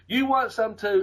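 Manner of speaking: a shouted threat over the barricade; retold yell. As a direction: yell the dare at him. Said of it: "Buddy just yelled that out".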